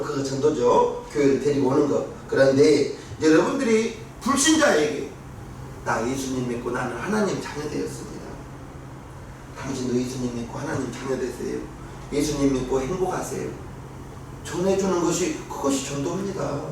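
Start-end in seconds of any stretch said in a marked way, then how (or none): 5.8-13.7 low, soft personal invitation; gentle witnessing. Shown as a demonstration. Believer inviting an unbeliever to faith, gentle appeal. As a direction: drop to a quiet, kindly appeal.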